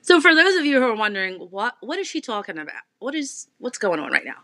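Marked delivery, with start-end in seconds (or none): 1.5-2.8 "talking" said with a Jersey vowel, like "tawking"; Jersey pronunciation. Real, not acted. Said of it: "I just jerseyed it 'cause I said talking".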